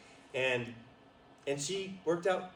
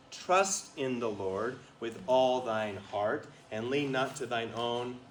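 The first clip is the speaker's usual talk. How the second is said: slow scripture reading; slower than usual. Shown as a demonstration. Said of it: "it says".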